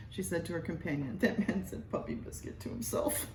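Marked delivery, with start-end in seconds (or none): 1.2-3.3 soft unvoiced whisper to a friend; whispered gossip. Woman whispering to her companion about Mitty, hushed. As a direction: lean in and whisper it.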